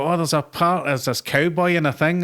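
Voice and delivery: breezy put-on casting chirp; casting director voice. Actor mimics casting director turning him down. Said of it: "you go".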